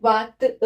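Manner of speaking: वात अ as French "van-tay-un", linked with a t; French pronunciation. Shown as a demonstration. Teacher modelling twenty-one in French, वात अ pronounced the French way. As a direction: say वात अ with the t carried into a nasal vowel. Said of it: "क्या बोलते हैं?".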